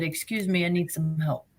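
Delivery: faint, strained plea after a blow to the face; barely getting the words out, hurt; weak plea for help. Retold or imitated. Injured woman asking ER staff for help, faint and strained. Injured walking into emergency room.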